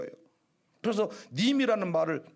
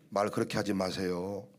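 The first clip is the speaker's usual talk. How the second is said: soft rebuke; 6 dB quieter than usual. Retold or imitated. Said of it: "이렇게 말하니까 좋으세요?".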